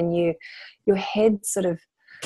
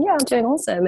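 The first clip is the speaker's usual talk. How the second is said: higher-pitched mock self-satisfaction; spiritual ego voice; 5 semitones higher, faster than usual. Spiritual ego claiming all is great, mock upbeat. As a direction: put on a lightly chirpy ego. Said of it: "it's spiritual ego".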